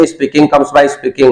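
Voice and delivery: slow, deliberate teacher model for the class to repeat; very slow dictation pace; slow model phrase. Shown as a demonstration. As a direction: spell it out slowly so students can copy. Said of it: "बोलिए".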